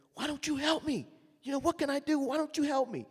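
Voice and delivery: high, loud pleading cry; desperate plea. Retold or imitated. Young trumpeter finally begs his tormentor, loud high plea. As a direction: beg for help at the end of your rope.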